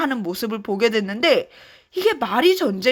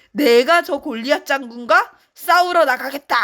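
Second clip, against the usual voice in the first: mild storybook anger; indignant David; 3 semitones higher than usual. Acted. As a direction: stand up for his God, indignant. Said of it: "다윗이 화가 났어요".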